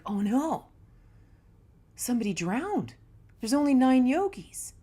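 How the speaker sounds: a yogi crying out in alarm; freaking out. Retold or imitated. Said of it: "the guy's freaking out".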